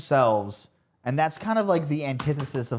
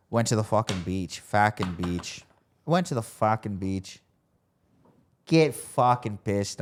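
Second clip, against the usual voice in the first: slow, badly faked Boston accent; 5 semitones lower, slower than usual. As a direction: grind out a clumsy Boston accent. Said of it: "My Boston's accent's so fucking bad".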